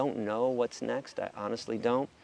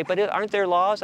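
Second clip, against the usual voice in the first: high, louder naive question; mock student question; 8 semitones higher, 5 dB louder than usual. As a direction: ask it like a doubtful student. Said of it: "they'd say".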